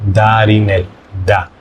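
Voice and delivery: Darinel with a soft D and tapped r; da said softly, Spanish style; soft D name. Shown as a demonstration. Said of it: "So that is pronounced".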